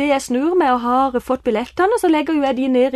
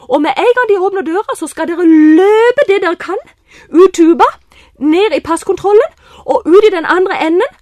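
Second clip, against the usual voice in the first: urgent command; 5 semitones higher, 7 dB louder than usual. Retold or imitated. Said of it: "urgent instructions to youths".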